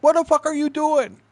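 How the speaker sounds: high, loud mock scolding; high-pitched yell of outrage. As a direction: imitate a boss bawling someone out. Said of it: "Can't even yell at him".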